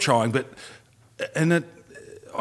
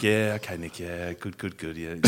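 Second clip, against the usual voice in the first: dismissive wife; 4 semitones lower, 8 dB quieter than usual. Retold or imitated. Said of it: "she was like".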